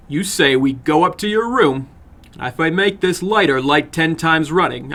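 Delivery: put-on young man spelling out the bet, earnest and a bit tense; young man checking the bet terms, lightly voiced and earnest; eager young American. The boy states the bet.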